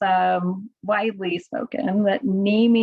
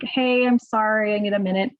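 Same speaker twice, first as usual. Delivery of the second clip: Midwest nice. Shown as a demonstration. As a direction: soften it with a needless sorry. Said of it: "notice I didn't say that Midwest nice".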